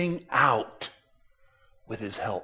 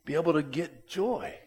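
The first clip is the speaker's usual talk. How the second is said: inner doubt; 8 dB quieter than usual. Retold or imitated. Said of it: "I think".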